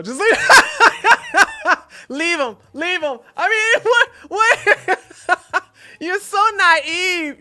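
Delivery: high laughing exasperation; laughing in disbelief. Real, not acted. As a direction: laugh it out, can't believe her. Laughing exasperation at letter writer.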